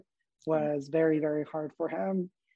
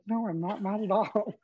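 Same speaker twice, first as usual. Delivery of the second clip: higher-pitched, protesting denial; retold denial; 4 semitones higher than usual. Telling brother he's not mad, higher-pitched mock denial. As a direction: insist you are fine, voice lifted.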